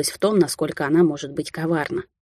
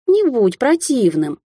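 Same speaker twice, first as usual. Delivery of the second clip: dismissive; 6 semitones higher, slower than usual. Acted. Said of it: "отмахнулась рыжая".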